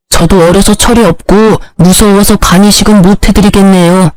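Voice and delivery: 철이 없고 echoed back in mild mock sincerity; a light sarcastic parody. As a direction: throw his own excuse back at him. Son mocks the father's excuse.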